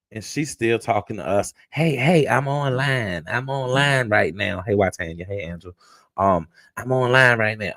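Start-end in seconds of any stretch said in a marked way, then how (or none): 1.7-7.7 hushed pleading. Retold or imitated. Skillet hushing husband during live.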